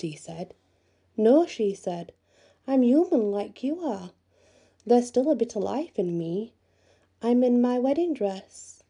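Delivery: a hint of a gentle young lady; enchanted lady. Lady in chest speaks.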